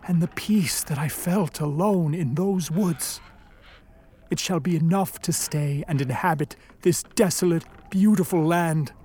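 low, subdued reminiscence; wistful resignation. Acted. Creature recalling peace alone in the woods, wistful resignation. Monster resigns himself to solitude.

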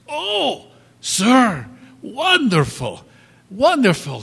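high, loud, eager greeting; delighted florist. Retold or imitated. Florist greets the happy husband, high and delighted. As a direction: beam at the returning customer.

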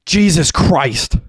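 high, loud, drawn-out scream; horrified scream. A narrator's reading. Derek as his brother is shot, horrified scream. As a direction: scream it long and high in horror. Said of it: "screamed Derek".

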